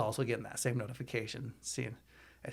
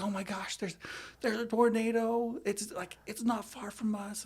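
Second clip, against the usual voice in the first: high, slow mock tearful wail, imitating; a touch of retold sobbing panic, pitched up; hammed-up upset wife, drawn out; crying wife; 10 semitones higher than usual. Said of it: "starts crying".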